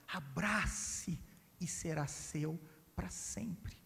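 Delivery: a soft, voiceless slow secret; king's whisper. Acted. King whispering his promise to the people, hushed. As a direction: breathe it like a king sharing a secret.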